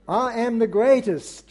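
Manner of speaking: a touch of an American boxer's boast; lightly American, boasting; American accent. Retold or imitated. Preacher to congregation, quoting Muhammad Ali in a mild American accent. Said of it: "my American accent leaves a bit to be desired".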